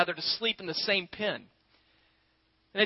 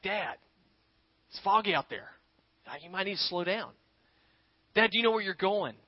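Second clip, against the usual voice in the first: put-on nervous boy; 5 dB quieter than usual. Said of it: "he's just sort of nervous and tentative".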